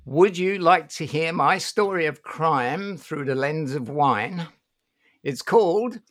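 slow, showy Cockney host voice; Cockney accent. Acted. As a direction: announce it like a London Cockney. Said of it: "make me sound like I'm a Cockney".

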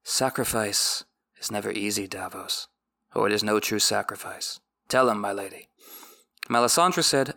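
measured audiobook reading; story narration. A narrator's reading. Recapper reads the book passage aloud in a measured narration. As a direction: read the chapter like an audiobook narrator.

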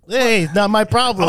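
mocking carefree brush-off, drawn out; Kermit. Co-host imitates an annoying friend's attitude, mock nonchalant. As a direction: lightly imitate an unbothered shrug-off. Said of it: "most annoying things in the world is Kermit's".

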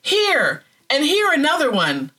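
high wailing lament. A narrator's reading. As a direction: wail it in disgust and fear. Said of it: "I wailed".

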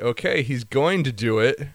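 building impatience. Retold or imitated. Acting impatient viewer.

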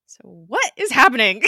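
exasperated bewilderment. Real, not acted. Host to co-host over the cliffhanger, loudly bewildered. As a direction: throw it out loudly, utterly baffled.

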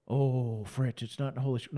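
lightly voiced, quick mock objection; a hint of mockery; mocking objector. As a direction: rattle off the critic's line in a lightly sneering voice.

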